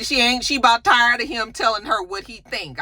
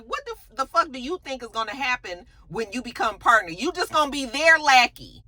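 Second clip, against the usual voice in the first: exasperated jab; 5 semitones higher than usual. Retold or imitated. Jax exasperated at Thomas.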